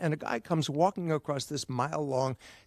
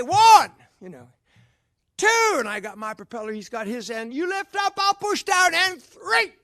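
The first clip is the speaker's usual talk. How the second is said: high, loud count to three; loud launch countdown; 9 semitones higher, 7 dB louder than usual. Acted.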